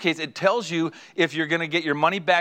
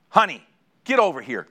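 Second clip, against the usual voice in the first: louder, demanding call to his wife; bossy call; 4 dB louder than usual. Retold or imitated. Husband ordering his wife over, loud and bossy. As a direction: snap the order across the room.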